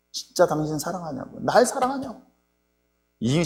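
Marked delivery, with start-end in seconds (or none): 0.1-2.2 imitating a peeved wife, softly at first; mildly irked question, pitch jumping up at the end; mock annoyance. Preacher voices Delilah questioning Samson's love, mildly annoyed. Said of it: "짜증내는 거예요".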